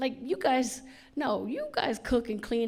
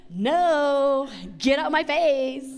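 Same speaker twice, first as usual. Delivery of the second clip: mock loud refusal; 4 semitones higher, 8 dB louder, much slower than usual. Mom refusing daughter.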